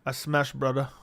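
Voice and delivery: faint attempt at a Dagestani accent; Habib accent. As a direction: lightly put on a Dagestani accent. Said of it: "How does Habib talk?".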